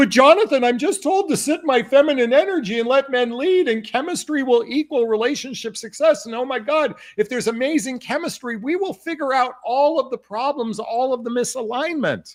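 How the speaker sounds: put-on mocking voice. Voicing the narrative the speaker says is out there, in a mocking voice. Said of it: "when I do my mocking voice".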